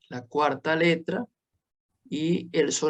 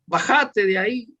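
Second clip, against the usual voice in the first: mock plea; 5 semitones higher, 3 dB louder than usual. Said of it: "como diciendo".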